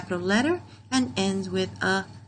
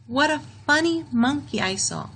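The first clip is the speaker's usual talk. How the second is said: pitched up, a gently amused exclaim; mock delighted exclamation; 6 semitones higher than usual. Shown as a demonstration. Teacher modelling strong feeling for grade two, mock excited. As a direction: say it like you really saw a funny monkey. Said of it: "An exclamation is a sentence that shows strong feeling".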